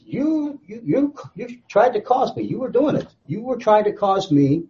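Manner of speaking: "You" repeated high, pinning the blame; accusing stress on "You". Acted. God charging Satan with responsibility, accusing stress on "You". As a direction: hammer each "You" in a high-pitched accusation. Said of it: "it emphasizes responsibility".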